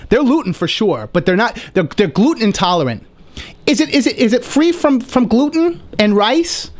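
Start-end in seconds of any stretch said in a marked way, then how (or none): 3.7-6.7 high-pitched mock diner voice; fussy girl. L A girl asking about gluten, mock fussy voice. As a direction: imitate a picky girl, pitched way up.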